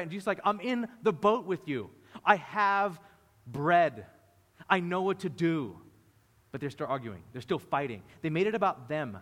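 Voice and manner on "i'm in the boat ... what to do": raised voice, words set apart by pauses; emphatic reassurance. Acted. Jesus telling arguing disciples he is there, emphatic. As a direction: insist firmly, as if to people not listening.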